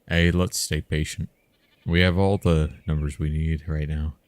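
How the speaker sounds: firm overseer to the group; overseer urging patience. Acted. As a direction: project to the crew as their overseer. Voices the overseer calming the workers.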